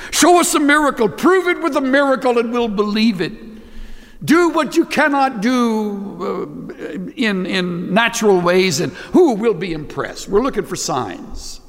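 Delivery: demanding proof. Acted. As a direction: dare God to prove it.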